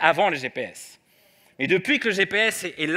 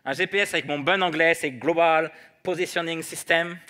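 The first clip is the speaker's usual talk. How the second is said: French-accented English. Shown as a demonstration. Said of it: "ils se moquent toujours de mon accent anglais".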